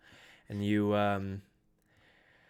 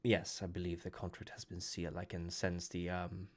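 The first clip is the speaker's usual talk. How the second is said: calm and soft; 5 dB quieter than usual. Acted. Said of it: "Matthew kinda looks at you slowly and goes".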